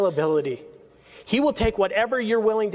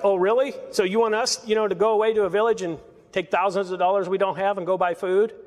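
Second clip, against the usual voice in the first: sarcastic. Retold or imitated. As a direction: toss it back like a doubting apostle. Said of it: "it's sarcasm".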